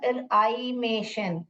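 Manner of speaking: slow र-आई-मेशन with a long "eye" in आई; र, आई, मेशन in slow separate parts; long I sound. Shown as a demonstration. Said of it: "ये आई बोलेगा".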